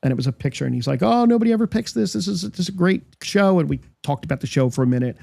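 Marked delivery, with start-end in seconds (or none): 1.0-3.6 excited quote. Retold or imitated. Star praising his own show.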